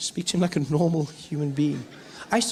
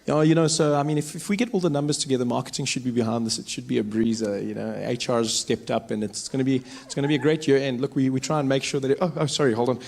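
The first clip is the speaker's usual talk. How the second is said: lower, smooth office talk; corporate chatter; 4 semitones lower than usual. Retold or imitated. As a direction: drone on about year-end numbers. White businessman in the car.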